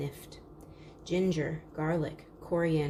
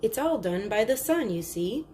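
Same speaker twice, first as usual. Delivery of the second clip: a hint of an eager salesman, louder; lightly voiced market salesman; 4 semitones higher, 4 dB louder than usual. Salesman pitching the solar lamp to the crowd, mildly louder. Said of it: "he was saying".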